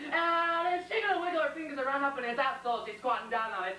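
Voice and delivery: insistent questions climbing in pitch; building jealous rant. Acted. Soldier imagining his lover's girl, a mounting jealous rant. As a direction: pile up each question, stretching the last one.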